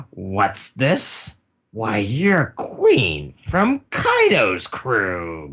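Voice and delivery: slow, drawn-out mock menace; menacing Big Mom. Big Mom recognizes Queen from Kaido's crew, slow menace. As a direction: stretch out each word as a looming villain.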